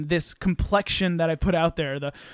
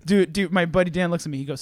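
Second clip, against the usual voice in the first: usual speaking voice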